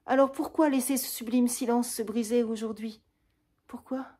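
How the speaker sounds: high, loud grieving questions; mourning fourteen lost years; anguished lament. Acted. Roxane lamenting the silent years to Cyrano, high and loud.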